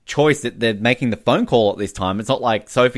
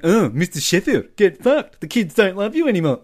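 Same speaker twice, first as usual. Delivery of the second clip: sassy sitcom nanny voice telling off her boss; cheeky Fran Drescher nanny put-on; Fran Drescher impression; 5 semitones higher than usual. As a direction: brush Mister Sheffield off like Fran. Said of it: "That was a great impression".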